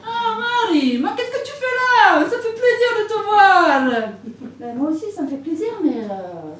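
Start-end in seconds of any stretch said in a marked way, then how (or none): 0.0-4.1 boss greeting. Acted. Voicing club owner Robert.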